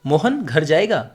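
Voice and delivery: "मोहन घर जाएगा" asked slowly, pitch swinging on जाएगा; question tune. Shown as a demonstration. Teacher repeating the question version for students, slow questioning tune on जाएगा. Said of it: "question पूछ के भी तो बोल सकता हूँ".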